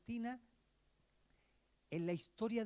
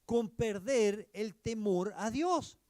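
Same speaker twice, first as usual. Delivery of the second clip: "Cuidado con perder el temor a Dios" dicho lento y fuerte; solemn warning; 7 dB louder, slower than usual. Acted. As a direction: advertencia grave, arrastrando las palabras. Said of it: "retoma las advertencias solemnes". (advertencia solemne y sonora)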